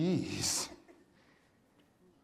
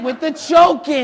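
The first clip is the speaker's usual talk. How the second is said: strained protest; 7 semitones higher, 9 dB louder than usual. Acted. Being choked.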